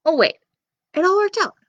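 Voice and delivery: high, bright sudden realization; fake surprise. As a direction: act as if it suddenly dawns. Narrator teasing Jack, pretend surprise.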